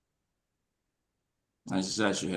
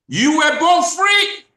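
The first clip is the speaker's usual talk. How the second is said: slow, much higher and louder, every word weighted; slowly; 9 dB louder, slower than usual. Shown as a demonstration. Host to YouTube audience, announced slow loud proclamation. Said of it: "I'm gonna say that slowly".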